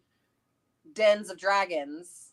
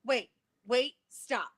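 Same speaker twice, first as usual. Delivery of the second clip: urgent interrupting; 4 semitones higher, 6 dB louder, faster than usual. Real, not acted. Interrupting with a new idea.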